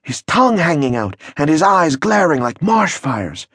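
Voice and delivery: ominous repetition. Acted. Confidant repeats the horror.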